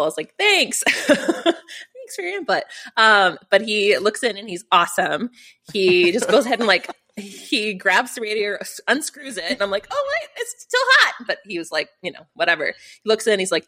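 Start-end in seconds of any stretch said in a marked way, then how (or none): 0.4-2.6 high, slow mock-sweet thank you; sarcastic thanks. Sarcastic reply to fire chief. 9.9-11.3 retold alarm. Warning chief about hot radiator.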